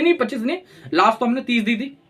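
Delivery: imitated objecting officer. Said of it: "तो वहाँ से बोलेंगे नहीं". (आपत्ति करते अफ़सर की हल्की नकल)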